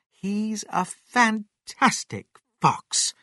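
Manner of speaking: high, slow, proud praise; admiring mother fox. Acted. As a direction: savour the praise word by word.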